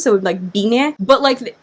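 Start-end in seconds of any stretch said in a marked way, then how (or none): 0.5-0.9 "bine" with the final e clearly sounded; "bine" with a rising final vowel; ending stressed. Shown as a demonstration. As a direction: lean on the last e of "bine". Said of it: "put the enunciation on the "e" at the end".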